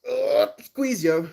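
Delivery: high hyped-up quote; high put-on voice. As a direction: squeal it like a stoner. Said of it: "ik zei".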